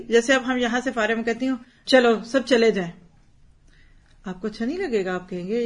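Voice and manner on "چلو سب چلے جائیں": louder, blunt command to leave; bossy order. Shown as a demonstration. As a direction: order everyone out curtly. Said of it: "بات تو ایک ہی ہے". (سخت حکمیہ لہجہ، اونچی آواز میں)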